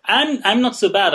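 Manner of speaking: winded, catching breath after a long sentence. Real, not acted. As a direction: talk while getting your breath back. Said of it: "I'm a bit out of breath now".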